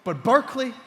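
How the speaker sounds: high, loud incredulous questions; comic disbelief. Acted. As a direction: punch each question in disbelief. Comic disbelief at missing representation.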